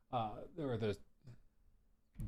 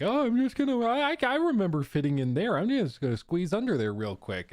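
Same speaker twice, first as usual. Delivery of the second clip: a hint of eager puppy, settling toward usual pitch; lightly voiced puppy; 3 dB louder than usual. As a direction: play an oblivious puppy thinking aloud. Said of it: "'cause he's like".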